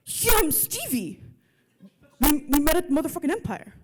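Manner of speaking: lightly voiced dumb thug. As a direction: dim tough guy, pleading. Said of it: "it's my dumb thug voice".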